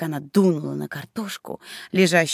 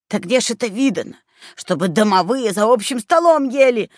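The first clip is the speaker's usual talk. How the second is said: indignant; 4 semitones higher than usual. Acted. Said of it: "возмущённо всплеснул руками человечек".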